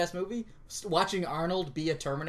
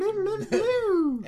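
cheesy drawl; 5 dB louder than usual. Pretend. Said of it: "I'm never gonna say that again".

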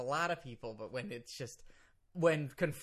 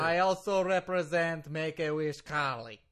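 put-on thick Russian-accented English; formal lawyer with a Russian accent. Lawyer names his other client to host, Russian accent. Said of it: "You were speaking with a Russian accent".

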